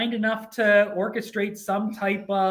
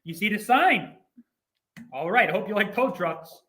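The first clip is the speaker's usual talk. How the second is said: faux Brooklyn accent. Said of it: "the faux Brooklyn voice".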